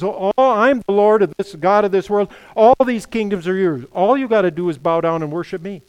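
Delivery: preacher lightly acting out Satan's boast; lightly voiced tempter. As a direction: make a big, tempting offer.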